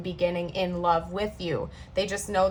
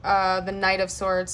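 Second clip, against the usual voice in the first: stalling through a brain freeze; slower than usual. Real, not acted. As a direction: lose the word mid-sentence, brain freeze. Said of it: "I got a brain freeze there".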